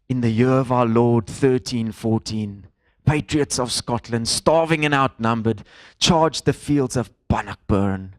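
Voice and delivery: slow, measured epic narration; film voiceover. Retold or imitated. Preacher recalling Braveheart's opening for the congregation, slow voiceover imitation. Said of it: "there's this voiceover that reads something like".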